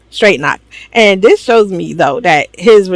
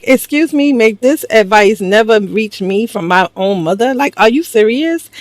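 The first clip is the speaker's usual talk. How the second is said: higher-pitched, affronted retort; indignant; 3 semitones higher than usual. Acted. Viewer answering the mother's advice, indignant. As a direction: object as if personally offended by the advice.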